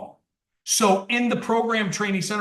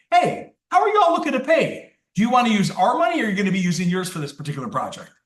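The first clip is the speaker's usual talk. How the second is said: cheerful salesman asking how they'll pay; upbeat salesman pitch; 2 semitones higher, faster than usual. Shown as a demonstration. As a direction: sell it like a friendly closer. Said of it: "when you preface that question".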